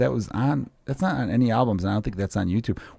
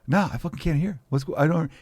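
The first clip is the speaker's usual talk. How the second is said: cocky mock; 6 semitones higher, 3 dB quieter than usual. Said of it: "real cocky dickhead look on his face".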